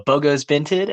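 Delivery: rising, asking it innocently; Bogo's Binted as a question; questioning catchphrase. Retold or imitated. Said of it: "go up to random people at the school and go".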